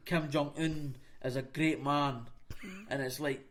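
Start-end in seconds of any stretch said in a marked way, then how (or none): 0.1-2.2 slow, lifeless recital imitation; mock monotone. Mocking North Korean website copy, monotone. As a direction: lightly imitate a dull propaganda writer. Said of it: "you can hear them saying it in a monotone".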